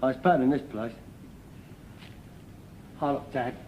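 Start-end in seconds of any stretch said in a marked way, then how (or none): 3.0-3.5 low, soft daydreaming; dreamy. Acted. Son imagines their arrival to his father, dreamy. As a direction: say it softly, pitched down, lost in the fantasy. Daydreams of being admired abroad.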